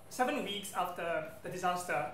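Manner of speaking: ordinary talk, nothing marked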